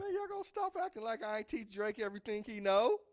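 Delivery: high, loud brash rapper boast; impression of a rapper. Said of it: "That's my best rapper impression".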